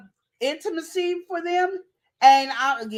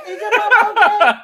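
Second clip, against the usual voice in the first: Is your mama okay pushed up high and loud, laughing; hammed-up sweet coworker; 7 semitones higher, 9 dB louder than usual. Coworker pressing the man, hammed up high and loud. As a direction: overplay the fake concern. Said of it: "she slithered on in there".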